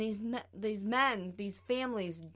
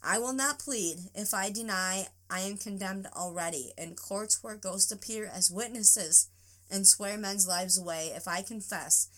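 dramatic reading. Acted. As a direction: read it like a stage monologue. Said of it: "take these words with you".

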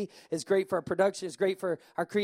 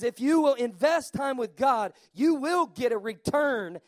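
emphatic repeat. Real, not acted. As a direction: press it home to the crowd. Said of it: "repeats the key line".

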